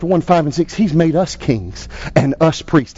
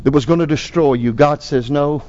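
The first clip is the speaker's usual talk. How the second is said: pastor's closing prayer. Acted. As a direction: lead the congregation in prayer.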